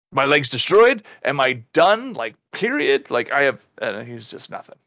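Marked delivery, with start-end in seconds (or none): 0.1-3.1 higher, louder panicked questions; a patient asking his doctor in alarm; retold panic. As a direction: replay the panic half-seriously. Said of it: "I'm literally panicking".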